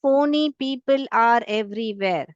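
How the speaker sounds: slow, each word set apart; teacher reads slowly to show phony starts with f; slow example read. Shown as a demonstration. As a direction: read it slowly so the f sound shows. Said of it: "जब हम पढ़ेंगे".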